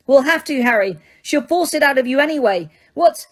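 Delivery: put-on desperate girl. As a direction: plead in panic. Hermione fake crying.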